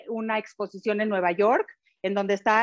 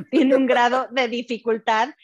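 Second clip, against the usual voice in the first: laughing while admitting it's hard; real laugh, a bit louder; 2 semitones higher, 5 dB louder than usual. Real, not acted. Se ríe de lo difícil. (riéndose)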